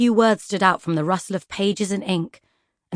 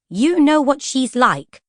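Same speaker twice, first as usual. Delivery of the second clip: higher, slow, hurt echo; recalled echo of Lady Feroza; 6 semitones higher, 4 dB louder, slower than usual. Retold or imitated. Vanya replaying the books' words, hurt. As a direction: repeat the sting. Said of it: "That was what Lady Feroza had said".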